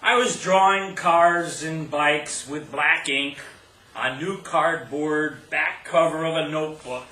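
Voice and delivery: measured poetry reading with stressed phrases and deliberate pauses; poem recital. Acted. Poet telling an audience about a childhood kiss, poem recital.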